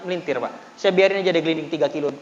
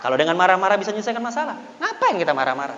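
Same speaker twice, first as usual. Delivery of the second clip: faster, settled repeat of the challenge; quick rhetorical wrap-up. Retold or imitated. Preacher repeating his point to the shop owner, quick and settling. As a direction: rattle it off to close the point. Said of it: "saya bilang".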